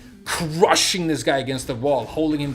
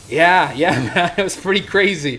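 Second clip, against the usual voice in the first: loud, higher, laughing reenactment; excited agreement; 5 semitones higher, 9 dB louder than usual. Retold or imitated. Customer replying to his rescuer, excited agreement. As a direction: agree emphatically, voice jumping up.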